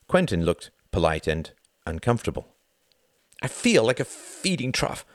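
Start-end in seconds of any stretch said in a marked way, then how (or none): 3.4-5.1 higher-pitched wry complaint; new mother complaining through a hard smile; harsh smile. A narrator's reading. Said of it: "said Wendy with a harsh smile".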